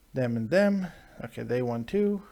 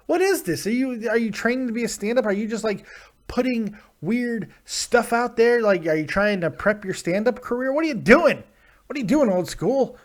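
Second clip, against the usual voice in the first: incredulous; 5 semitones higher than usual. Real, not acted. Mock incredulity at fan joke.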